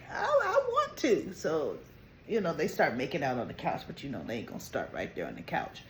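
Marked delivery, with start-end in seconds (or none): 0.1-1.3 much higher, slow, shy confession; a young husband shyly admitting he wants a baby; bashful admission. Retold or imitated. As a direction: ease the words out timidly.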